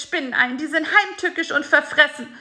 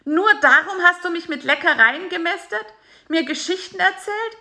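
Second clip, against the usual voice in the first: bitter high fly voice; 10 semitones higher than usual. A narrator's reading. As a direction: throw his betrayal back at him. Bisi's bitter accusation.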